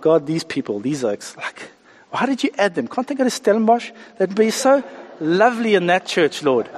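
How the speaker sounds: lightly acted petty complaint to God; mock grumbling. Preacher complaining to God about church people, mock grumbling. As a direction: grumble a prayer, sliding up into exasperated questions. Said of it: "I wake up some days and I grumble".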